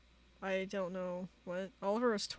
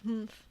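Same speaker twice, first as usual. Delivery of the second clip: short mock humph; read-out humph; 2 semitones higher than usual. Reading Oliver's chat reply to Shark, short mock humph. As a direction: give a little imitated huff. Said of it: "Why are you humphing?".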